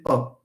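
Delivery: a relaxed open Oh, lips unrounded; relaxed vowel demo. Shown as a demonstration. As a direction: say Oh with the tongue at rest. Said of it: "Leave your tongue in its normal position and say".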